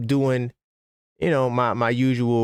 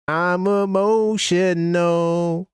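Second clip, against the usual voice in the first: mocking the player; 8 semitones higher, much slower than usual. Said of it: "Like, this is Mitchell Robinson".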